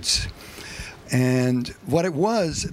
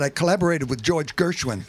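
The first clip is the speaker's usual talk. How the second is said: deadpan; 2 semitones higher than usual. Retold or imitated. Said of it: "I said it with a straight face".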